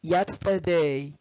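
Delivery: slow, clear model words; slow examples. Shown as a demonstration. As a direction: read each example word slowly. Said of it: "زي".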